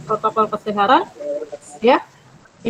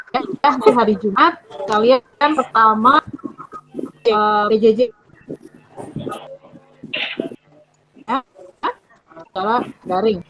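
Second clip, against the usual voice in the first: buffering stutter. Real, not acted. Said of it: "Suaranya putus-putus".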